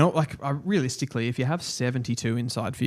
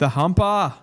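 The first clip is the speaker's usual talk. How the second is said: goofy voice; 5 semitones higher, 4 dB louder than usual. Pretend. Nickname said in a put-on voice.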